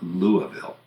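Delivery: LOUISVILLE as LOO-uh-vul; native pronunciation. Shown as a demonstration. Quoting insistent native speakers, Louisville as LOO-uh-vul. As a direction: soften the middle of Louisville to UH. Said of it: "some people who insist".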